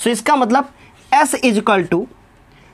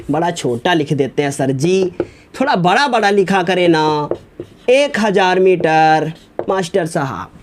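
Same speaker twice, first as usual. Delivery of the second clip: lightly voiced complaining pupil; mock student complaint; 5 semitones lower than usual. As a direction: drag it out like a pupil griping to the teacher. Mimics a student's complaint to sir.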